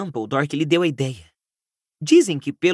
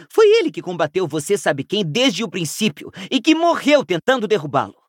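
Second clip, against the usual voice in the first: high-pitched start, settling into insistent argument; impassioned defence of someone; earnest pleading; 4 semitones higher than usual. Acted. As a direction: plead his case with conviction. Hermione pleads in Dumbledore's defence.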